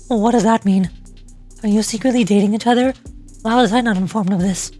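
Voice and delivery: lightly voiced, low-pitched interrogator; a hint of a stern, demanding character; suspicious game character.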